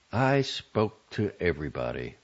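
undramatic, grim weight on "everybody"; grim emphasis on EVERYBODY. A narrator's reading. Matron of honor reporting, grim understated stress on "everybody". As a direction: lean grimly on "everybody" without drama. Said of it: "with a grim, but for her peculiarly undramatic emphasis on everybody".

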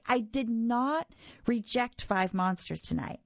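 interrupting. Acted. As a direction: cut in firmly. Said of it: "I interrupted".

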